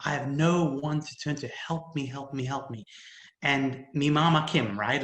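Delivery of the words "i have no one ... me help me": help me trailing off into softness; mild retold tearful begging; retold bawling plea. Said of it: "I bawled and I said".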